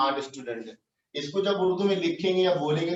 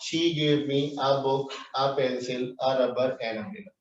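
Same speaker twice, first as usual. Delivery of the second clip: slow example sentence; 2 semitones lower, much slower than usual. Shown as a demonstration. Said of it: "इसकी मिसाल कैसे?".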